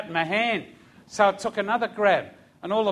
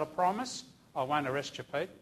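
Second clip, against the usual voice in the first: soft, low promise; low, calming re-enacted voice; retold reassurance; 4 semitones lower, 9 dB quieter than usual. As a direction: reassure him quietly, keeping the voice down. Reassuring the distraught man, retold.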